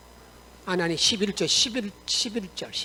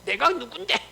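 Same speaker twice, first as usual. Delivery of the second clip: slightly raised, indignant question; mock arrogant anger; 3 semitones higher, 5 dB louder than usual. Proud Naaman asks who they think he is, acted indignation. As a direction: bristle with a touch of mock pride. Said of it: "화를 막 내는 이 교만이거든".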